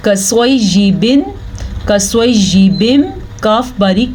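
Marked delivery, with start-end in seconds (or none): 0.1-3.0 कसवैयिबिन, कसवैयिबिम slowly, thin k and full s; heavy saad demo. Shown as a demonstration. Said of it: "स्वाद पुर पढ़ा जाएगा".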